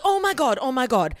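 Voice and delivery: loud, high burst of excitement; excited interrupting friend. Retold or imitated. Imitating a friend who cuts her off mid-story, excited. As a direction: cut in with high, loud urgency.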